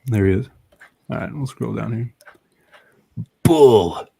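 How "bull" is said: loud, hammy comic book hero; dramatic comic voice. Acted. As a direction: bellow it like a cartoon villain. Reading comic dialogue aloud, dramatic.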